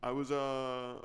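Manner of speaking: halting presidential impression with a long "uh"; measured statesman cadence, lightly put on; Barack Obama. Obama telling where he was born, halting delivery. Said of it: "it's Barack Obama".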